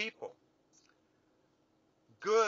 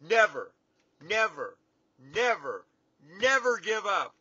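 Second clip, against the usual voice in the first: Winston Churchill; 6 dB louder than usual. Retold or imitated. Imitating Churchill's commencement speech to the graduates, loud and deliberate. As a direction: deliver it like a statesman at the podium, measured and loud. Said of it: "And he said it better than that".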